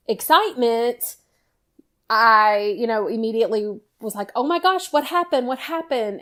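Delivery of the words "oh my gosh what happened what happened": high, alarmed questions; jolted awake and demanding what happened; startled alarm. Retold or imitated. Mom woken by her screaming daughter, startled and alarmed.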